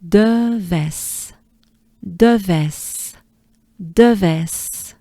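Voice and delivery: stretched De, dropping onto ves with a hissed final s; French model pronunciation. Shown as a demonstration. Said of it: "Let's try it together".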